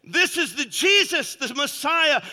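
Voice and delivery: loud, emphatic sermon delivery; full-force preaching. Real, not acted. Preacher declaring God defends Israel to the congregation, full-force preaching.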